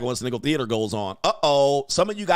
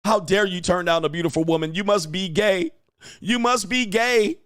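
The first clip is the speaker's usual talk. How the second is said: mock indignation; 6 semitones higher than usual. Voices rejected women lashing out.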